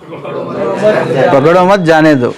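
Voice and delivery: पकड़ो मत drawn out slowly as one phrase, then जाने दो; slow reading with मत tied to पकड़ो; vizier's misreading. Shown as a demonstration. Teacher asks how the vizier read it, slow पकड़ो मत together. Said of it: "वहाँ वज़ीर कैसे पढ़ा?".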